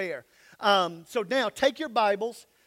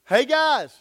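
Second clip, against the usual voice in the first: much louder hail to the crowd; calling out; 4 semitones higher, 9 dB louder than usual. Real, not acted. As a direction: grab the whole room's attention. Pastor calling to congregation.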